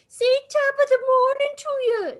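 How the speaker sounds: loud, high, hammed-up tourist asking for Irish charm; mocking a clueless fan, high and loud. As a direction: ham up a pushy fan demanding the catchphrase. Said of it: "They're just constantly like".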